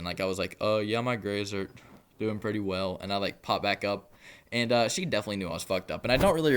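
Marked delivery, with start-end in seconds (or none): 0.6-3.0 imitating someone drifting off, words drawn out with a lag; slow, halting mock-drowsy reply; nodding off mid-sentence. Telling how he dozed off while chatting, mock-drowsy. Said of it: "I started falling asleep mid-conversation".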